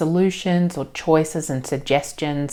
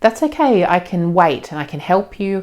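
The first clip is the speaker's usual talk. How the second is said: higher, louder reassurance on "That's okay"; reassuring parent; 4 semitones higher, 4 dB louder than usual. Shown as a demonstration. Reassuring, raised and brighter on "That's okay". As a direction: parent calmly telling an upset child it's okay. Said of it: "It's just about letting them know".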